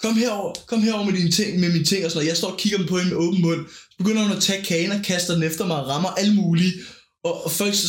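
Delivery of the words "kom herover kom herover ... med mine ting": bossy party host. Retold or imitated. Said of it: "Hun går rundt sådan her".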